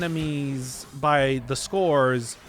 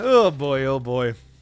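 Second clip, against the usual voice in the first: worried-sounding voice; 4 dB louder than usual. Speaker reacting to what the DLC gives, in a worried voice. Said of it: "you can just hear the worry in my voice".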